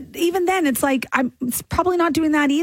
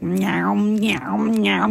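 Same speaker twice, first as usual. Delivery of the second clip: gum smacking noise; 6 semitones lower, much slower than usual. Retold or imitated. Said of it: "it's like".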